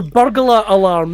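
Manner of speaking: "burglar" said slowly with full Scottish Rs; stretched Scottish "burglar alarm". Shown as a demonstration. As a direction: draw out "burglar alarm" in Scots. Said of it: "That was his big one".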